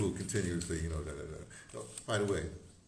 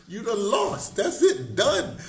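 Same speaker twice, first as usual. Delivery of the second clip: emphatic; 10 semitones higher, 7 dB louder, much slower than usual. Real, not acted. Emphatic ruling, laughing, raised voice.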